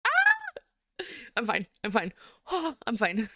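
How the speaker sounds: little cry, then half-hearted insistence with a sigh; mock tearful. Streamer retelling being moved by boyfriend's praise, mock tearful. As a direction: act out holding back tears. Acts out holding back happy tears.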